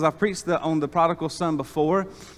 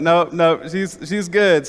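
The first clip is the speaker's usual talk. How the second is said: emphatic reassurance; 3 semitones higher, 6 dB louder, slower than usual. Retold or imitated. Family reassuring the upset sister, loud and emphatic. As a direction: reassure her firmly but kindly.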